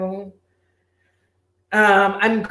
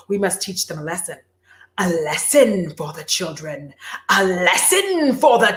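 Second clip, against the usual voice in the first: menacing sorceress. Retold or imitated. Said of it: "because she's like".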